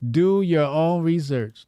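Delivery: "Do your own research" said slowly, each word weighted; slow emphatic. Shown as a demonstration. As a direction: drag it out with mock gravity. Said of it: "repeat, second slower".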